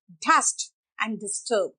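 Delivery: dust and disturb with a light English d; soft English D. Shown as a demonstration. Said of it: "ड को soft करो". (dust, disturb में नरम ड)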